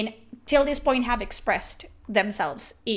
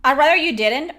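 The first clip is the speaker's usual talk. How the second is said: higher, louder disbelieving repeat of "I'd rather you didn't?"; incredulous echo; 4 semitones higher, 6 dB louder, faster than usual. Real, not acted. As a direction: throw the line back in disbelief. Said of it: "Wait, that sounded bad".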